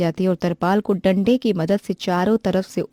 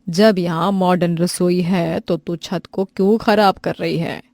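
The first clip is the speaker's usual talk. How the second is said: stern mother-in-law; 3 dB louder than usual. Acted. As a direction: set the bride straight firmly. Mother-in-law scolds bride. (सख़्त सास की डाँट)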